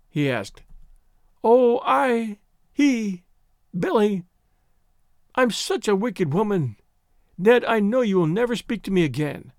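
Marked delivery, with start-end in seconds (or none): 1.4-9.5 higher, halting, distressed start easing into lament; acted anguish with broken phrases; distraught confession. A narrator's reading. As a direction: stumble into the confession, upset. Distraught girl stammers out confession.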